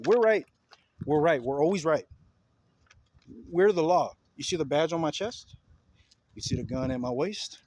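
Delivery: lightly acted self-righteous cop, loud at the start; mock a cop insisting on authority; police officer's mentality. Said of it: "That is their mentality".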